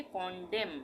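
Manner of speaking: "कॉन्डेम" closing on M; silent final N. Shown as a demonstration. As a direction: say "कॉन्डेम" with no N after the last M. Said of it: "एन का उच्चारण नहीं होगा". ("कॉन्डेम", आख़िर का न silent)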